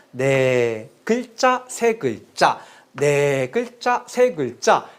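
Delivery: "네 글자, 세 글자" in two separate groups, first word stretched; phrased four and three. Shown as a demonstration. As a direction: draw out 네, then break before 세 글자. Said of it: "끊어 읽는 것이 보통이다".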